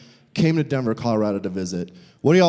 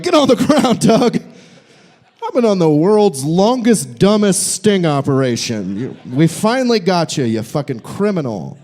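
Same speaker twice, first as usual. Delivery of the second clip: louder, barking undercover cop; mock cop arrest; 2 semitones higher, 4 dB louder than usual. Son pretending to arrest his dad, mock cop yell. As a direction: bust him like a fake cop. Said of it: "pull a gun and badge out and be like".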